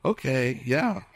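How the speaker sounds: mock-agreeing, doubtful brush-off; disbelieving. Pastor voices disciples doubting the women, disbelieving. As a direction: play along without believing a word. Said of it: "they didn't believe the women".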